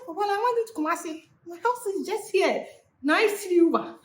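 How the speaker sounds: high sweet mock-polite brush-off; high and sugary, playing nice to get away.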